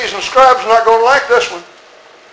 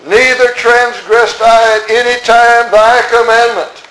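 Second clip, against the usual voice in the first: slow, high, pompous protest; elder brother pleading his own record, slow and high; self-righteous elder brother; 4 semitones higher, 4 dB louder, slower than usual. Acted. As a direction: drag it out like a wronged good son. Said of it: "listen to what he said".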